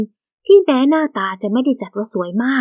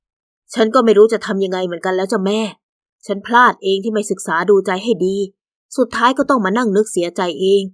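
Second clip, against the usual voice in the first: resigned; 2 semitones lower than usual. Acted. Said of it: "อย่างคนปลงตก".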